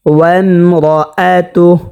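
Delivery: slow ওয়ামরাআতুহ with a thick, rounded রা; measured recited ওয়ামরাআতুহ, full heavy r; heavy R recitation. Shown as a demonstration. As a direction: thicken রা in ওয়ামরাআতুহ and stop on a breathed h. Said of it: "হাটা সাকিন হয়ে যাবে".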